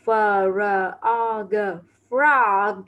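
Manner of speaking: "F R O G, frog." spelled letter by letter, then the word "frog."; teacher spells "F R O G" then says "frog." for pupils; spelling out. Shown as a demonstration. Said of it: "Và con ếch đọc là frog".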